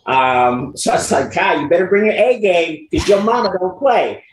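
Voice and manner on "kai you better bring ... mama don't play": retold fatherly warning. Retells warning his son.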